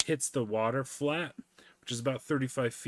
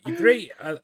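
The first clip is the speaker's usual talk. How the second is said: loud grateful voice; 10 semitones higher, 7 dB louder than usual. Retold or imitated. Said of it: "this guy's just kinda like".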